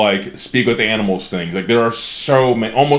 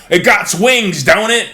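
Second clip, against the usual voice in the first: high, louder dopey goblin voice; dumb goblin; 10 semitones higher, 5 dB louder than usual. Retold or imitated. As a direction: play a dim goblin who is sure he is right. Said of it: "And they're like".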